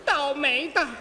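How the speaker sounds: fiery Gypsy girl scolding, lightly voiced; dubbing Yesenia. Dubbing Yesenia, she scolds Osvaldo in a fiery voice. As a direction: tell him off like a proud Gypsy girl. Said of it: "您先开口啊".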